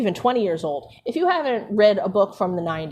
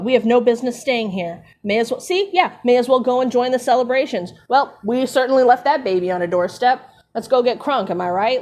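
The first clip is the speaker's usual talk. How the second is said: a louder, breezy push to go celebrate; mock party-ready Dumbledore; 3 semitones higher, 4 dB louder than usual. Dumbledore urging the others to party, hammed-up glee. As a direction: sell it like leaving to get crunk.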